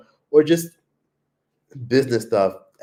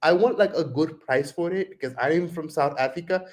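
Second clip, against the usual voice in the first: put-on pitched up with an Indian accent; imitated Indian accent; 5 semitones higher than usual. Answering a vendor, imitated Indian accent. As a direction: pretend to be South African in Tyler's Indian accent. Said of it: "that's how Tyler talks".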